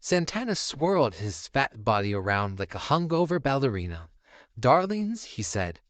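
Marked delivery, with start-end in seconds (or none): 4.6-5.2 camp diva greeting. Acted.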